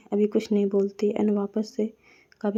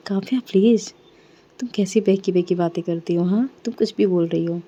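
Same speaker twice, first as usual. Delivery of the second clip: exasperated protest; 5 dB louder than usual. Acted. Ragini protesting Kavya's accusation.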